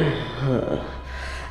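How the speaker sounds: short, soft huff; scornful sigh. Acted. Queen weary of the rebel faction, disdainful sigh. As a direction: let out a quiet disdainful breath.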